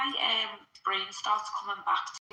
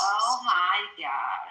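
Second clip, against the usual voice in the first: put-on Valley Girl; 5 dB louder, much slower than usual. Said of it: "Do like a Valley Girl".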